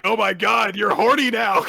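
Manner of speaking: high, loud gleeful cry; Karen. Retold or imitated. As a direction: crow over a friend's secret. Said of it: "Karen's just like".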